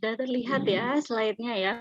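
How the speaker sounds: slightly hoarse, worn-out voice. Real, not acted. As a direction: speak through a raspy, tired throat. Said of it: "suara saya agak serak".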